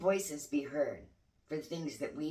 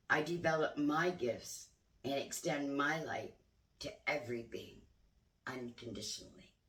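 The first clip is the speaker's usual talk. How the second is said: affirmation reading. Acted. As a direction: read each line deliberately, like a vow. Reads an affirmation card aloud.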